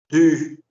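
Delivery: "du" with rounded French u, lips pushed forward. Shown as a demonstration. Teacher shows students the French u in "du", rounded and forward. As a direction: say "du" with a tight rounded ü. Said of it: "Esto es diferente de esto".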